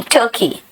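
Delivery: टर्की said as the English Turkey, hard retroflex t, quietly; English name. Shown as a demonstration. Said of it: "तुर्की नहीं".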